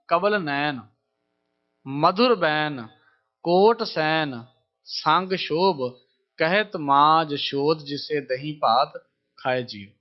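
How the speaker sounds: very slow, drawn-out sacred verse; deliberate devotional chant; slow verse recitation. Acted. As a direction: stretch each word of the hymn.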